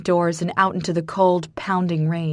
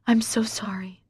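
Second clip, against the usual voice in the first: breathy whispered apology; 3 semitones higher than usual. A narrator's reading. To crying Marcus, a whispered apology. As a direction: barely voice it, just breath. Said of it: "I whisper".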